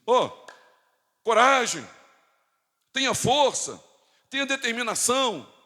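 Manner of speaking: rally them like a pep talk, word by word; mock rousing exhortation. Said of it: "Isaías não diz assim".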